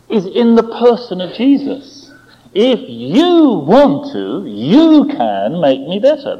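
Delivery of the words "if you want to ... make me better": slow, drawn-out stress on "you"; confident appeal. Retold or imitated. Sick man appeals to Jesus, confident, slow stress on "you". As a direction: lean slowly on each "you", trusting them. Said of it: "That's where his confidence lies".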